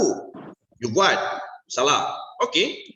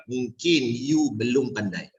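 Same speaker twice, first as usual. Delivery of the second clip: gentle correction; 4 semitones lower, slower than usual. Shown as a demonstration. Coach shows the right way to correct, gentle. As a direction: ease the blow gently.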